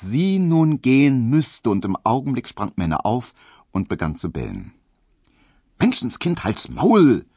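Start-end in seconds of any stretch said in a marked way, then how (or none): 5.8-7.2 high, loud shout at a dog; scolding call. A narrator's reading. Hedwig telling off her barking dachshund, high scolding shout. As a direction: call out sharply, pitched up. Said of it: "rief Hedwig den Dackel an".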